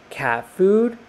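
high, questioning cat voice; meowing cat. A narrator's reading. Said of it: "meowed Mildred".

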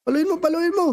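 urgent, high-pitched command; natataranta. Pretend. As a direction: egg on a teammate in a playful panic. Nag-uutos habang hinahabol sa laro. (natatarantang pag-uutos, mataas ang boses)

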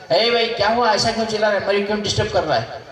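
annoyed outcry. Retold or imitated. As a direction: snap at the noisy mourner, a bit hammed-up. King annoyed at wailing stranger. (झुंझलाकर ऊँची आवाज़ में पुकारना)

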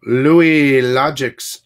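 slow, loud hype call of the name; calling out a generous viewer, drawn-out and loud; drawn-out shout-out. Real, not acted. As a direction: stretch the name out like an announcer. Hyping a supporter's name on stream.

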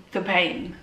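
a short breathy laugh breaking through the hurt; laughing through pain. Real, not acted. Telling the viewers about losing her dad, laughing helplessly. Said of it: "And I'm laughing".

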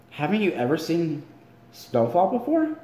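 rising, disbelieving question; incredulous. Acted. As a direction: ask as if it can't be true. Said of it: "he asked incredulously".

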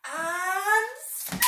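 sudden loud, high snap. Acted. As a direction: make the children jump. Crocodile snaps.

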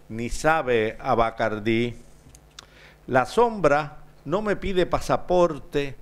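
incantatory Spanish verse with rolling rise and fall; rhythmic poet's delivery, pausing between lines; poetry recitation. Acted. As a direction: recite the poem in cadenced lines, leaning into each repeated opening. Poet recites second Spanish poem.

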